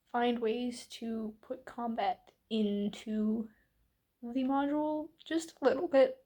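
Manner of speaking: talking through hiccups; hiccuping between words. Real, not acted. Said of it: "the hiccups there".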